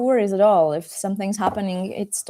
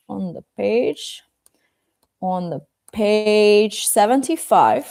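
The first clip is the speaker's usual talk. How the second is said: slow, each word spelled out for learners; slow clear repeat; 3 dB louder, slower than usual. Shown as a demonstration. Teacher to pupils, repeating the page slowly. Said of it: "you can open the book on the page".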